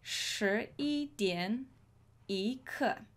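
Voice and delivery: 十一点一刻，放慢，每个字拉长; 慢慢念出十一点一刻，给学生听清; slow demonstration. Shown as a demonstration. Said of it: "For example".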